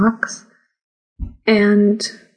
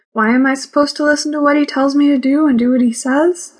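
higher and fast, baffled rising question; puzzled question; 5 semitones higher, faster than usual. Acted. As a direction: rush the question, puzzled and incredulous. Narrator puzzles over the rule.

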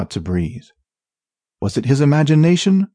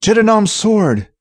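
high, frightened small voice; 9 semitones higher than usual. A narrator's reading. Thief swearing as darkness drops, small scared voice. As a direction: utter it high, small and alarmed. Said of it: "his voice small".

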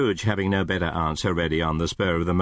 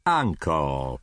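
pleading; 3 semitones lower than usual. Acted. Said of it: "pleaded the nephew".

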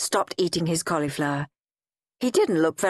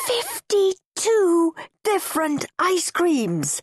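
savoring awe; 11 semitones higher, slower than usual. A narrator's reading. Savoring the list.

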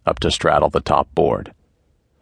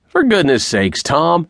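sharply higher, startled cry to stop him; alarmed plea; 11 semitones higher than usual. A narrator's reading. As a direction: blurt it out as the gun comes up. Man alarmed at leveled gun.

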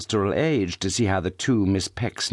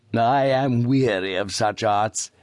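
smug smile; 2 semitones higher, slower than usual. A narrator's reading. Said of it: "smiling more and more".

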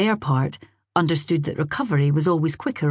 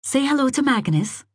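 gentle; 9 semitones higher than usual. A narrator's reading. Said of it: "said Isabel gently".

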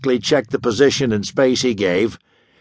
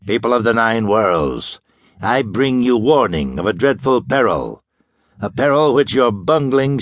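lightly voiced sinister doctor, rasping warning; grim broadcast warning, rasped and heavy; a touch of villainous menace, deep and harsh. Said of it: "he rasped in a deep, harsh voice".

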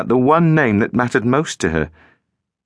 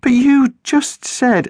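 much higher, slow protest; insist, cut off mid-word; 3 dB louder, slower than usual. A narrator's reading. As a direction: narrator voicing the girl protesting. Girl protesting.

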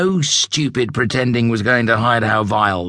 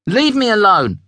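higher, louder irritated bark; higher-pitched annoyed snap; irritated young zebra; 10 semitones higher, 4 dB louder than usual. Acted. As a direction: push the pest away. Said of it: "barked Julius".

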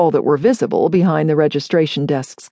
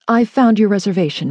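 brisk, polished clerk tone; professional voice; 3 semitones higher, faster than usual. Acted. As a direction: keep it crisp and businesslike. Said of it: "her most professional voice".

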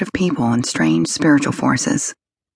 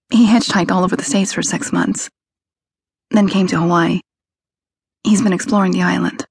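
proud; 4 semitones higher than usual. A narrator's reading. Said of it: "her voice rang with pride".

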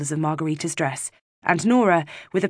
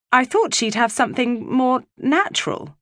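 uncertain; 8 semitones higher than usual. Acted. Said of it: "said Frau Hoffmann uncertainly".

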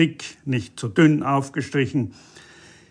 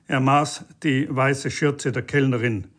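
ordinary delivery

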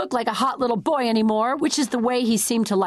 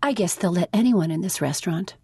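kindest voice. Acted. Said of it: "I say in my kindest voice".

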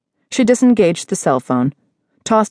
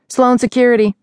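lightly voiced man on the phone; male voice answering phone; 7 semitones higher than usual. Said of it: "a familiar male voice answered".

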